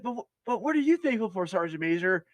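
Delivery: hammed-up questioning; mock prodding. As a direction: push him for an answer. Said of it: "He's like".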